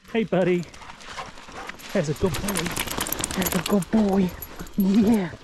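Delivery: excited dog praise. Real, not acted.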